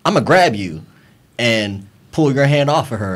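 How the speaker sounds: firmer retold threat, at normal volume; mildly forceful, no shouting; forceful grab warning. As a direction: state it as a physical warning. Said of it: "It was one of those".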